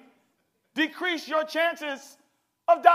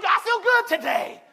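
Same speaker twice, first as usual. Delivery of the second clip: exuberant shout; 3 semitones higher than usual. Acted. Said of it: "You feel".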